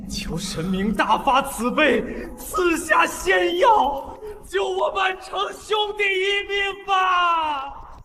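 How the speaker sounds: soft, slow faraway plea; as if heard down a shaft; distant echo. Acted. Plea repeated, heard from afar.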